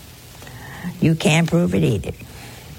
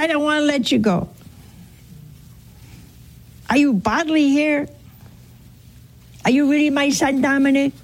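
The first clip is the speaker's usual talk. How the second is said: acted wonder; 7 semitones higher than usual. Acts Don Bosco questioning the apparition.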